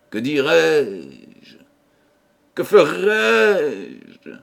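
a guilty man spiralling into dread; anguished inner monologue. Acted.

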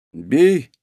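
ordinary delivery

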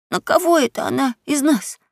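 breathless frightened whisper; out of breath whisper. Acted. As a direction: gasp it out in a whisper. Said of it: "задыхаясь, прошептал Геккельбери".

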